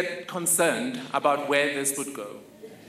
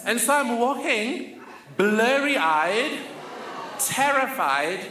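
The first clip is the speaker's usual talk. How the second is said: nervous excitement; 6 semitones higher than usual. Real, not acted. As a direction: tell it with rising nerves. Terrified walk onto stage.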